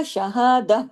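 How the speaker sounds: tajweed pause on شہادہ; breathy chest ha. Shown as a demonstration. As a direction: let the ha of شہادہ breathe out like a sigh. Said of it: "یہ آواز سینے کی طرف جاتی ہے".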